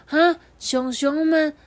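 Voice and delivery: slow, high amazed thought; wide-eyed wonder. Acted. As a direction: gasp at the secret. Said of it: "他心里想说".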